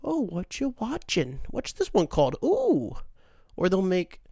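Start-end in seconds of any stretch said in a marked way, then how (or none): 0.0-3.0 lightly mocked curious intruder, slow start; mock curiosity, ending on a high ooh; nosy onlooker. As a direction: imitate someone butting in with idle questions. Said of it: "when people are like".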